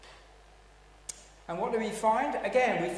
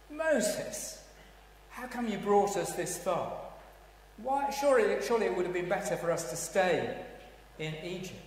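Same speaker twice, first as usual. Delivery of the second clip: blaming complaint; 5 semitones higher than usual. Acted. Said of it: "Their response is to blame Moses".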